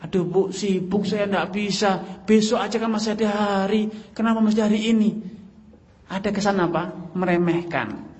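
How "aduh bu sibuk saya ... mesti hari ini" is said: dismissive husband. Acted. Husband voiced brushing wife off.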